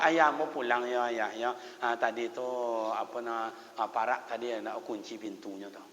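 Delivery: low, soft, halting leave-taking; hesitant excuse. Acted. Third child wanting to go home, hesitant quiet excuse. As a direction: fumble quietly for a reason to go.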